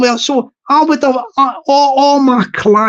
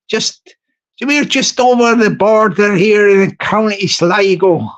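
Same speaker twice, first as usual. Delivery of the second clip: mock Irish accent. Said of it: "I just feel my Irish voice coming on".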